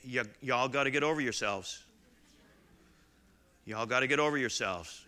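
lightly put-on Southern accent; a hint of a Southern preacher voicing Paul. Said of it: "He says with a southern accent".

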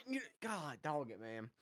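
ordinary talk

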